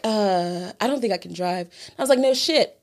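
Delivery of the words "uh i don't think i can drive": softer, lower mumble of a friend; mock sheepish friend. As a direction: mumble it like you know you're no help. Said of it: "so they're like".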